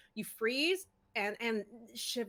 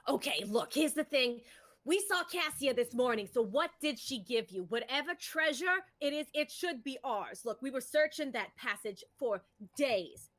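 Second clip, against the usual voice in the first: demanding halfling. Acted. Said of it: "She goes".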